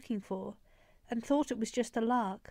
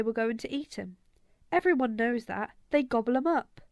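a lightly voiced kid, a touch louder; Egyptian boy, eager; 4 dB louder than usual. First Egyptian boy passing the Northampton rumour to the gang, eager kid. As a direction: pass on the rumour like gospel.

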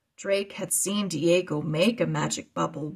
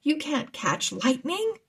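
voiced as Carlos; 6 semitones higher than usual. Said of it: "Carlos asked".

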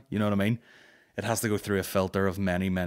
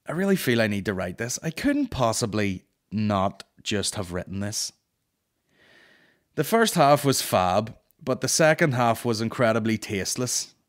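quoting the complaint. Retold or imitated. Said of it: "That's my brain hanging up".

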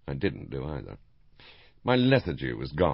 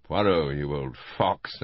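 shouting; 4 dB louder, slower than usual. Acted. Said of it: "I shouted".

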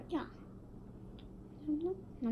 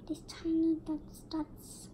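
soft whispered wonder; hushed whisper over tiny dots; 6 dB quieter than usual. Real, not acted. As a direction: whisper it to yourself. Whispering about little dots.

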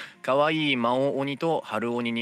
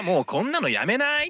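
japanese gyaru slang; 8 semitones higher than usual. Retold or imitated. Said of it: "めっちゃギャル".

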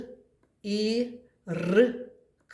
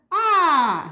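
high squeaky little mouse; a teacher's high mouse puppet squeak; 8 semitones higher, 8 dB louder than usual. Acted. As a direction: chirp it like a tiny mouse. Second mouse puppet answers.

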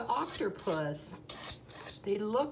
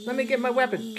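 louder urgent repeat; 6 dB louder, faster than usual. Pretend.

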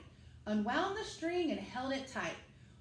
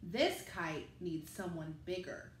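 lower, steady father voice; a hint of a big grown-up explaining; dad's voice; 7 semitones lower, 3 dB quieter than usual. The people explain.

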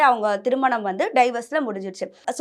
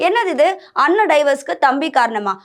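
mock disbelief; 2 semitones higher than usual. Host voices viewers reacting to divorce gossip, mock disbelief. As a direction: act out a baffled viewer's question.

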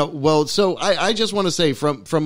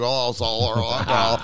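California dude; 4 semitones lower than usual. Retold or imitated. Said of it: "that's like a California".

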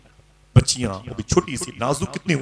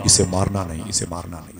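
fading warning voice; 3 semitones lower than usual. Retold or imitated. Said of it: "अचानक मेरे पीछे आवाज आई".

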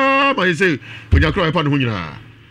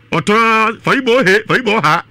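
mimicking a powder seller; 4 semitones higher, 4 dB louder than usual. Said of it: "ɔtɔn powder".

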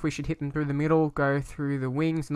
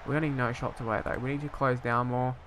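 ordinary talk

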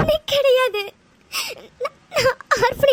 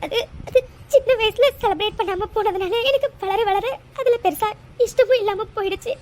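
tearful. Acted. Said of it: "அழாத".

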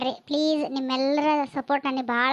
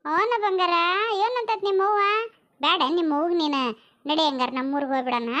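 put-on high, singsong baby talk; aunt cooing at baby; 4 semitones higher than usual. Aunt fusses over the baby girl, playful cooing. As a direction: coo playfully to an infant, pitched high.

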